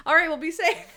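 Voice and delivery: chirpy helpful woman who suspects nothing; high naive helper voice; innocent Natalie. Retold or imitated. Natalie sends thief off.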